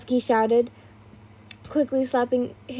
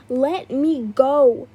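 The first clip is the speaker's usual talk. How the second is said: shouted plea; 4 dB louder, much slower than usual. A narrator's reading. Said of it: "you shouted".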